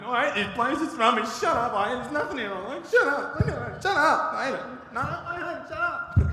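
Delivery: high, loud whining brat; spoilt child tantrum. Pretend. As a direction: stamp about like a spoilt six-year-old. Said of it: "spoilt six-year-old".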